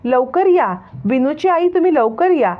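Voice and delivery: put-on a child calling loudly into the house. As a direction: shout for them to come quickly. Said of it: "तेवढ्याच जोराने ओरडत".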